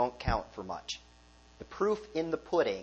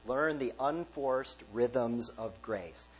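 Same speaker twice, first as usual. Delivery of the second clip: slow and a little softer, word by word; savoured slow quote; 4 dB quieter, much slower than usual. Shown as a demonstration. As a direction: let the phrase «Learn the unforced rhythms of grace» settle gently. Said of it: "Don't you like that phrase".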